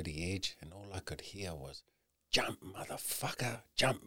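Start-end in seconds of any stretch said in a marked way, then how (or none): 2.3-4.0 hushed, urging jump; whispered inner voice. Retold or imitated. Man at the cliff edge voicing his ego, a whispered urging. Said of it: "My ego was fucking, fuck, it was loud".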